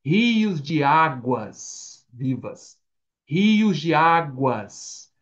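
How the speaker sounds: very slow "rios de águas"; drawn-out, weighty "rios de águas"; stressed plurals. Shown as a demonstration. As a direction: stretch "rios" and "águas" to the final s. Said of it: "no plural".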